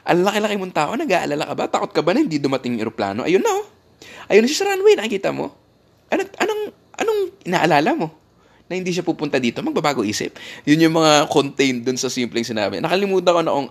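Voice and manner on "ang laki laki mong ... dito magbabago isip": high, teasing voice asking if he's scared; playful high-pitched mockery of a nervous passenger; mock taunting gate agent. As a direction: needle a big man like a small child. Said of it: "para sinabi niya".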